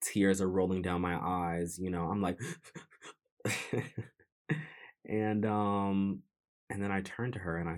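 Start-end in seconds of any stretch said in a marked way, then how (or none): 3.4-4.0 shuddery mock sob breaths; imitated sobbing. Showing how they cried before coming out, imitated sobbing. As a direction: imitate stuttering sobs without words. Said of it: "I was sobbing. I was stuttering".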